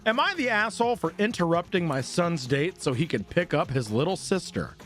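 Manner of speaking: ordinary talk, nothing marked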